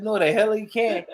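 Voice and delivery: laughing denial. Retold or imitated. Laughing denial of his boast.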